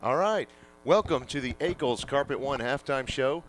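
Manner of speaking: out of breath from the stairs; winded after running upstairs. Real, not acted. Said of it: "Sorry, I'm a little out of breath".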